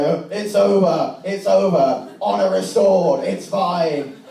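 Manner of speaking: high, drawn-out proclamation; mock manly declaration. Two boys ending their fight with honour, loudly declaring it.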